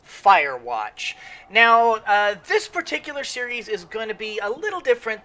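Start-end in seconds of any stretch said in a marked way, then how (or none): 0.0-1.1 high, loud hello to the viewers; excited greeting. Real, not acted. Host greets his viewers at the start, excitedly. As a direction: throw the greeting out big and bright.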